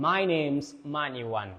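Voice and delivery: "name's" as one word with is cut to a final s; contracted is. Shown as a demonstration. Teacher modelling the short form for learners, "name's" contracted. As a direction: run "name's" together, ending on the s. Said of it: "อันนี้คือจะย่อตัว S เอ่อ is เข้ามาแล้วเนาะ".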